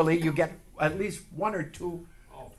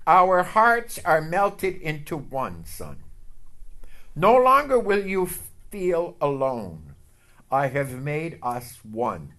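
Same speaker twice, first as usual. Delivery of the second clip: slow, tender voice of God; voice of the Lord; slower than usual. Retold or imitated. God speaking tenderly to him, slow and loving. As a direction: speak slowly as a loving father to his son. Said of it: "This morning he said".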